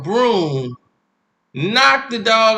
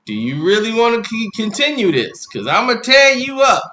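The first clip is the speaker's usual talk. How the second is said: rising into a loud threat; threatening warning; 4 semitones higher, 4 dB louder than usual. Retold or imitated. Parent warning the defiant boy, building to a loud threat. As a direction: warn the kid he's about to get it.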